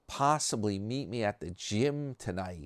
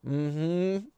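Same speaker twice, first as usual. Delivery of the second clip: higher-pitched sidekick hum of agreement; Carl; 7 semitones higher than usual. Retold or imitated. Carl agreeing with whatever the host says, imitated sidekick. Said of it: "Carl's just like".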